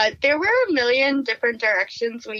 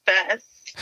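laughing; 5 semitones lower than usual. Real, not acted. Reading ad quote, cracking up.

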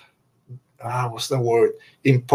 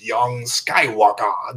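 Emperor voice; much slower than usual. Retold or imitated. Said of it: "I love the way he says".

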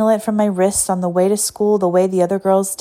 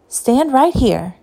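put-on old lady voice; 6 semitones higher, slower than usual. A narrator's reading. Teacher instructing wet girl.

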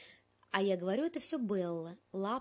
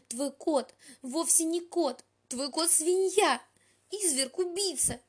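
high, loud and slow accusing shriek; 9 semitones higher, 7 dB louder, slower than usual. A narrator's reading. Melanie shrieks to Ellie about her cat, loud.

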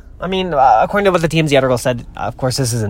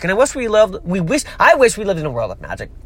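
slurred speech; 5 semitones higher than usual. Real, not acted. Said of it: "I'm slurring over my words".

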